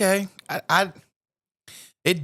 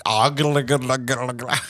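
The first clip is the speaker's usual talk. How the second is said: silly gargle noise. Pretend. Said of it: "Remember our noise from last week?".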